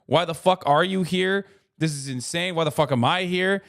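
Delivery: a fan who can't believe who he's seeing; shocked fan. Retold or imitated. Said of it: "When someone just goes".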